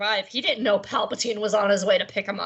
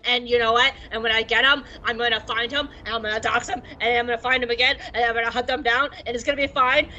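mock whiny Vader. Vader ranting to Palpatine about Obi-Wan, mock whine. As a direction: rant like a sulky teen. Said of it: "Vader's just like".

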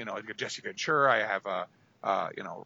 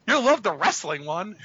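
eager pitch; 6 semitones higher, 7 dB louder than usual. Retold or imitated. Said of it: "I'm like".

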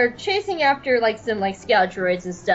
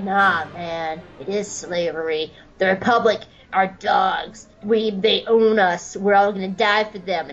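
Cut; 4 semitones lower than usual. Acted. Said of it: "Cut's like".

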